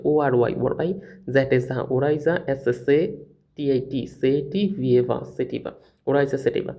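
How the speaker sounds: "ওরাইজা" read as "ও আর Y, ওরাই, জ্যাট is যা", then joined; letters, then syllables, then "সেটিভা" whole; spelled out syllable by syllable. Shown as a demonstration. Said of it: "আমার বইতে এরকম দাগিয়ে দেওয়া ছিল".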